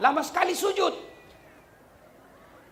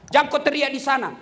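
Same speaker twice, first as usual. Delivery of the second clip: Jangan kau teriak di sana said louder, stress on Jangan; louder emphatic repeat; 6 dB louder than usual. Shown as a demonstration. Preacher repeating the warning to worshippers, louder. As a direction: press the warning harder the second time.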